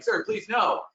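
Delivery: desperate plea. Retold or imitated. Guide begging a hiker near the moose, high squeaky plea. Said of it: "So I am begging him, pleading with him".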